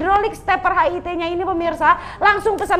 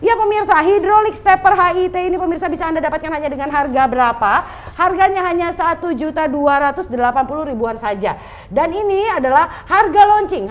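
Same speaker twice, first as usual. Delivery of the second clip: infomercial; 4 semitones higher than usual. Acted. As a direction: hype it up like a TV shopping host. TV shopping host's sales pitch.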